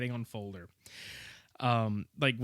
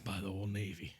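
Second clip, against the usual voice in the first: surfer voice; 6 semitones lower, 12 dB quieter than usual. Retold or imitated. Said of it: "he sounds like a fucking surfer".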